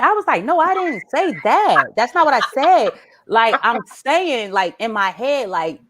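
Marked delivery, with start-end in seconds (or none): 0.4-2.9 higher-pitched acted protest; defensive denial. Mother backpedalling to son, defensive. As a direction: deny it emphatically, pitch up. Parent protests in retold argument.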